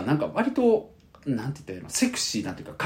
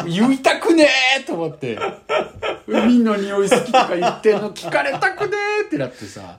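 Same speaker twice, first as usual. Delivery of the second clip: high, slow laughing groan; embarrassed laughing; 9 semitones higher, 6 dB louder, slower than usual. Real, not acted. Telling a friend about the embarrassing shop talk, laughing.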